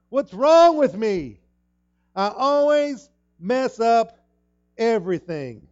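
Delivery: high, slow, loud wail of self-blame; despairing cry. Retold or imitated. Preacher acting a broken believer, loud despairing cry. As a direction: cry it out like you've failed again. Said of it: "the statement I made earlier".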